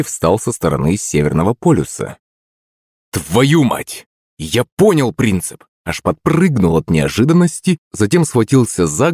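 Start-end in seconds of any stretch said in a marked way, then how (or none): 3.1-5.6 startled realization. Acted. Sudden realization in the story.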